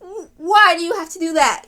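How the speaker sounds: frustrated, really wanting an answer; indignant fan's protest; angry on her behalf. Real, not acted. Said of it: "it makes me so angry for her".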